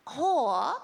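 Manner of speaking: breathy whispered "Whore" in mock Japanese accent. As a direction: whisper it like the princess offering fruit. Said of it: "she goes like this".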